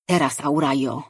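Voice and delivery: urgent call inside her head; mental shout. Acted. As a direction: shout it as a sudden mental command. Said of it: "Myślowy okrzyk Jurana". (mentalny okrzyk, nagły i pilny)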